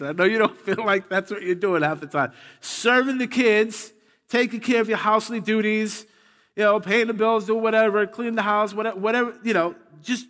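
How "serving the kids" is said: slow, lifted "Serving" to drive it home; stress on serving. Shown as a demonstration. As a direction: hold "Serving" a beat longer. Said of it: "Let's use the right word".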